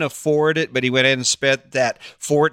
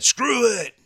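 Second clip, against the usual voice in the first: much higher, dismissive imitation of the grandson giving up; mock fed-up quit; 10 semitones higher than usual. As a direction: toss it off like a fed-up kid about to quit. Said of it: "He said".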